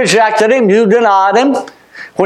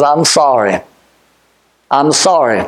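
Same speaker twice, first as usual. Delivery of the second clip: a low, heartfelt "I'm sorry"; humble, sincere "I'm sorry"; sincere apology; 10 semitones lower than usual. Shown as a demonstration. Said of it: "The only thing that I know that you can say is".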